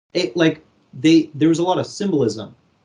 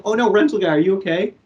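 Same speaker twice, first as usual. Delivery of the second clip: mock alarmed woman; 7 semitones higher than usual. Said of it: "she gets out saying".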